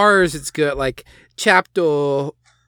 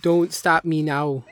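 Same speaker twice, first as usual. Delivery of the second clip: put-on baby voice; 3 dB quieter than usual. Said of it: "in baby voice, if you wanna".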